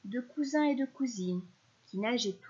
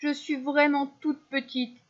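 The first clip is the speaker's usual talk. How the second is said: higher, louder plaintive wail; moaning; 4 semitones higher, 5 dB louder than usual. A narrator's reading. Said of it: "gémit la baleine".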